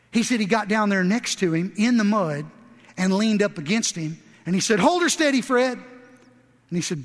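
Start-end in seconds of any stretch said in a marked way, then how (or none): 4.8-5.8 raised, steady command to a horse; a driver steadying his horse from the wagon, called out; firm call to a horse. Retold or imitated. Man calls to his horse.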